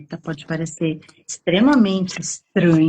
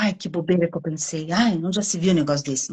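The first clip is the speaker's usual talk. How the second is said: dismissive scoff; 2 semitones lower, faster than usual. Shown as a demonstration. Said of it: "não é menosprezar".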